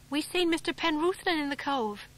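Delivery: put-on simple boy blurting it out; lightly voiced local boy. A narrator's reading. Local boy Jan breaks news.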